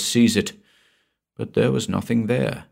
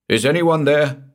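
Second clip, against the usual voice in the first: a sudden frightened shout, louder; 6 semitones higher, 4 dB louder than usual. A narrator's reading. Man alone in a dark room, calling out in a shout. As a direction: blurt it out loud into the dark. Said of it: "this time he knew he had shouted".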